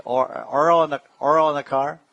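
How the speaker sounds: put-on "oil in the car" in a playful New York accent; mock New York accent. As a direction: tease the New York way of asking. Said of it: "They say".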